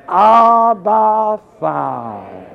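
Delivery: very slow, drawn-out tender call; sweet, intimate. Acted. Preacher showing how we call God our Father, sweetly. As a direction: linger lovingly on each word. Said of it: "It's so sweet".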